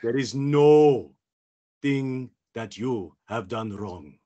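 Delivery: put-on slow, accented Jedi absolution; Kit Fisto. Jedi comforting a worried Padawan, slow and soothing. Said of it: "Oh my God, Kit Fi".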